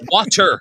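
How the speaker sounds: "water" with an open ah and a clear t; standard "water". Shown as a demonstration. Radio host correcting the accent, "water" with open ah. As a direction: pronounce "water" carefully, no oo and no d. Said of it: "I learned how to pronounce water".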